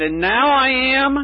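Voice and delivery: mild cry of triumph after coming up from the water; retold joyful exclamation. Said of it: "came up sputtering and cried".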